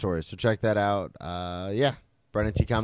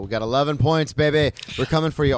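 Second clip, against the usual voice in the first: louder, slightly raised trash talk; hyped boast; 3 semitones higher, 3 dB louder than usual. Real, not acted. Fan boasting to Arsenal about eleven points, hyped. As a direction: crow about the points at the rival.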